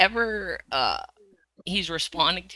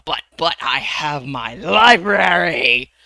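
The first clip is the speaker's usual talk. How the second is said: excited; 9 dB louder, slower than usual. Acted. Sudden brightening after sulking.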